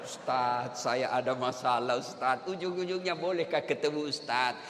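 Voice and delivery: low, soft, plaintive mock confiding; widow pretending to confide. Widow confiding in the Ustaz, hushed mock-plaintive voice. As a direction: play a widow pouring her heart out quietly. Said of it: "Pura-pura curhat janda-janda".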